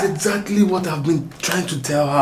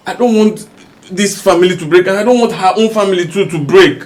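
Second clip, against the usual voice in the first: pleading shout; 3 semitones higher, 6 dB louder than usual. Acted. Husband shouts to stop fight.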